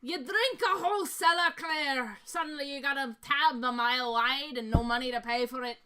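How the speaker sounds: lightly voiced dwarf storyteller; rueful dwarf. Dwarf confessing a huge bar tab, mildly rueful. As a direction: spin a tavern tale as a dwarf.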